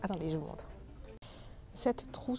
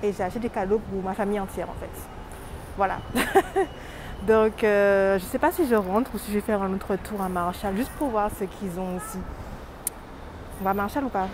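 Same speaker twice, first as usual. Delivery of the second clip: loud; 10 dB louder than usual. Real, not acted. Loud store talk.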